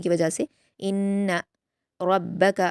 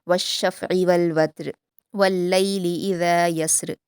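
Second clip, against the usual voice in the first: slow, melodic Quranic recitation; measured Quran recitation; tajweed recitation. Shown as a demonstration. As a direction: recite it slowly and carefully as a model for students. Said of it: "ता पर कलकला नहीं करेंगे और बारीक पढ़ेंगे".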